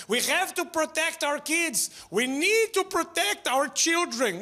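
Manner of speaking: high, earnest pleading; mock worried parent.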